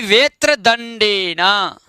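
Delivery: वेत्र दंडे न slowly repeated, syllables held; careful pronunciation. Shown as a demonstration. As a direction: model वेत्र दंडे न at a measured, slow pace. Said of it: "एक बार उच्चारण कर लेंगे".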